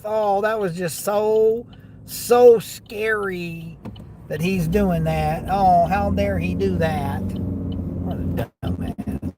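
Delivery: slow, drawn-out fake scared; sarcastic mock fear. Real, not acted. Driver mocks the man who flipped him off, slow sarcastic fake fright. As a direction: stretch it out, pretending to be terrified.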